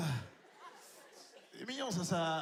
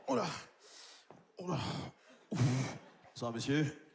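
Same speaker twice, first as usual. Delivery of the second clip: low, cold contemptuous doctor; a hint of a deep, disdainful doctor; arrogant doctor House; 5 semitones lower than usual. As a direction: sneer as the nasty TV doctor. Doctor greeting patient.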